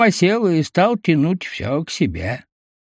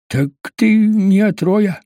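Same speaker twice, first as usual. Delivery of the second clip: Baklan's voice; 6 semitones higher, slower than usual. A narrator's reading. Baklan's voice in story.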